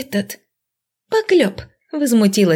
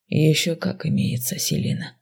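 softer, hushed and earnest; suddenly serious; 3 semitones lower, 5 dB quieter than usual. Acted. Mage turning serious with the girl, quiet earnest tone. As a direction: drop the teasing, say it quietly. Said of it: "Посерьёзнел он вдруг".

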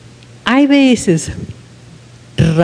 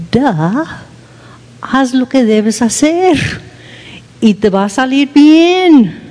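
higher and firmer, a touch of a lecture; scolding inner voice; 3 semitones higher than usual. Retold or imitated. Wife voicing the inner scolding she wants to give, firm and high. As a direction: give yourself a stern talking-to. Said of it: "yo quiero decir".

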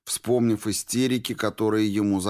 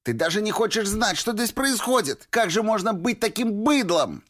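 furious. A narrator's reading. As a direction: rage at his ignorance. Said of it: "от ярости".

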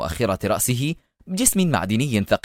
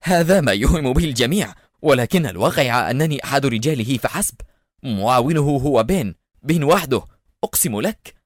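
raised-pitch, urgent pleading; frightened, insistent denial; terrified cry; 3 semitones higher than usual. Acted. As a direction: protest in moderate panic. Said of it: "صرخ جولهي وهو يراقب اقتراب الجدران في رعب".

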